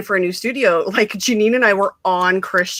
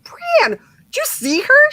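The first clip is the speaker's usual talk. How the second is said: much higher and slow, breathless amazement; starstruck, retelling seeing her; stunned whisper-gasp; 4 dB louder, slower than usual. Retold or imitated. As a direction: gasp it to your friend. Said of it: "and I was like".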